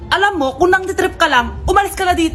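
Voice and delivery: loud, firm get-out order; angry warning. Acted. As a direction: throw the stranger out. Wife telling stranger to leave. (galit na pagpapalayas, malakas)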